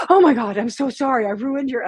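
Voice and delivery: high, gushing mock apology; flustered apology. Cleaner realising she ruined the take, flustered and apologetic. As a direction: imitate someone mortified, pitched well up. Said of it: "And she's like".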